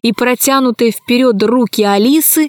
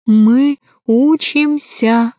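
halting dolphin voice; much slower than usual. Acted. Dolphin speaks with effort.

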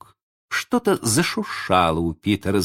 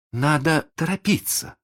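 higher-pitched cheerful urging; brisk, spirited; 8 semitones higher than usual. A narrator's reading. Венди urges Питер to hurry, brisk and spirited. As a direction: chirp it briskly, ready to go. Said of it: "бодро проговорила она".

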